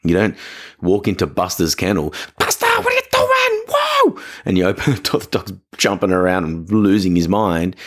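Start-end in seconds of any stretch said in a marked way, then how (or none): 2.4-4.2 squealing very high at the dog; over-animated greeting. Retold or imitated. Volunteer walking into Buster's kennel, squealing very high. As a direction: burst in shrieking with excitement. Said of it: "you're walking in over animated".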